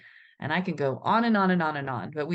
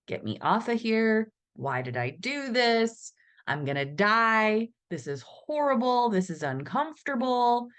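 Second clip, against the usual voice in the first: scared rider; 5 semitones higher than usual. Retold or imitated. Voicing a scared rider's thoughts.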